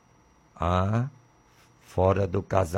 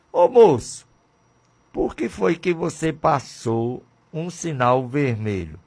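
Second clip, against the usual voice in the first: officer questioning; 5 semitones higher than usual. Acted. Traffic officer scolding driver.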